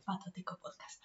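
breathy whispered show name, dropped low; podcast announcer voice. Shown as a demonstration. Host introducing her podcast, in a hushed announcer voice. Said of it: "hacer la voz de Patótico Podcast".

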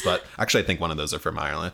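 hammed-up stage Irish leprechaun accent; quick, mock leprechaun Irish accent.

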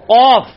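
قاف from the back of the throat, loud; heavy uvular ق in قاف; deep qaaf. Shown as a demonstration. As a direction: hit the ق deep at the back palate. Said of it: "اور ایک عام کاف ہے".

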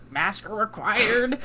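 drawn-out, lightly voiced old lady. Old lady customer balking at masks, lightly mocked. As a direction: draw it out like a put-out customer. Mocking old lady's question.

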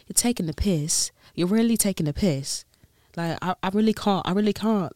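put-on amateur British accent, lightly done; tentative imitation of British slang and accent; attempted British accent. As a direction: mimic a British islander's complaint. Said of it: "it's hard to say certain words".

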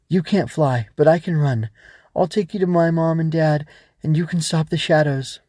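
put-on determined child. Ava offers to carry the Growbug, determined. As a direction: make a plan with new resolve.

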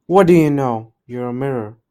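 loud furious roar. A narrator's reading. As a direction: roar at the mirror. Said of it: "roared the queen".

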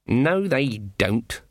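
slow, firm and flat-out; firm denial. Acted. Granny rejecting Nanny's claim, firm slow denial. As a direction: shut the idea down, slowly. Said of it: "said Granny Weatherwax firmly".

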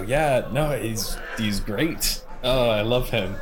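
fake agreement. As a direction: pretend to love him. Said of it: "trying to pretend".

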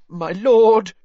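high, choked and desperate; choking plea. A narrator's reading. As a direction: beg through a choke. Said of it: "he choked".

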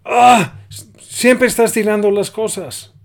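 put-on sudden high, loud shout at the child; frustrated mom yelling over spilled milk; mother yelling. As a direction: snap at the kid who spilled the milk. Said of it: "Y ella grita".

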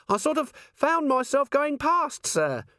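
very high, strained squeal; panicked dwarf. A narrator's reading. Dwarf dangling from the candle line, high panicked voice. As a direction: squeak it out, barely holding on. Dwarf hanging, answering Vimes.

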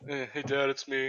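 soft, drained phone voice; weary quiet. Retold or imitated. Shell-shocked son calling his dad, soft and worn out. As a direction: mumble it, worn out. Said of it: "He's like".

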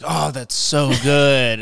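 overly cheerful relief. Retold or imitated. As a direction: stretch it out, delighted. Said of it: "we're like".

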